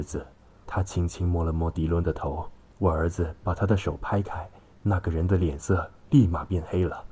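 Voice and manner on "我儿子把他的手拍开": ordinary delivery, nothing marked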